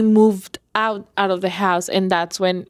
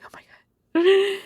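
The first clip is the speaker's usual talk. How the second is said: higher, startled oh my God; frightened gasp; 12 semitones higher, faster than usual. Retold or imitated. Woman retelling hearing another pop, frightened and high. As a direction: blurt it out as the fear hits.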